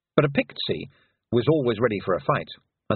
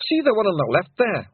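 whimpered; 10 semitones higher, 4 dB louder than usual. A narrator's reading. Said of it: "whimpered a Pictsy".

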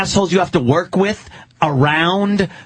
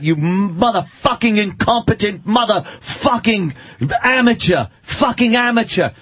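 Christian Bale rant; 3 semitones higher than usual. Retold or imitated. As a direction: imitate an actor's on-set tirade, understated. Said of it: "Christian Bale on that rant".

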